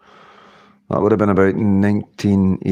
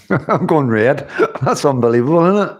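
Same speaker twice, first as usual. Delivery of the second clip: laughing; 4 semitones higher than usual. Real, not acted. Laughing while cooking live.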